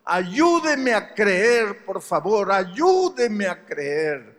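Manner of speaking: slow, pleading, a touch of tears; begging the pastor slowly, mildly weepy; retold tearful plea. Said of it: "llorando me decía".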